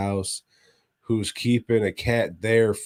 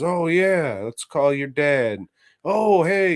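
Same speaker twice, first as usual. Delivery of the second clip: creepy friendly voice; 7 semitones higher, 3 dB louder than usual. Retold or imitated. Reeve luring kid.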